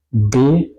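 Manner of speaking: "Besprechung" broken into three with long pauses; syllable by syllable. Shown as a demonstration. Teacher testing where syllables begin, "Besprechung" split up. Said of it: "hacemos la prueba de las sílabas".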